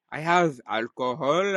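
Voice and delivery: halting put-on French accent. Trying for another accent, still in mock French accent.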